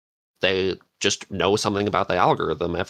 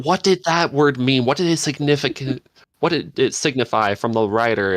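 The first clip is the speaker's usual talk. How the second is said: higher, prim teacher quizzing the class; mock English teacher; 4 semitones higher than usual. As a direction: play a fussy teacher probing meaning. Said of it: "You're gonna be like an English teacher".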